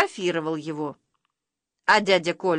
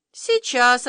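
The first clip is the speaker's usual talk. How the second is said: talking camera; 5 semitones higher, 4 dB louder than usual. A narrator's reading. Talking camera answers the boy.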